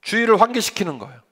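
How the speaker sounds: usual speaking voice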